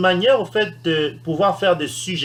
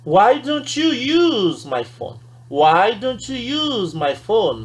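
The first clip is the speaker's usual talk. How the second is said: polite suggestion; 4 semitones higher, much slower than usual. Shown as a demonstration. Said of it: "On va lui dire".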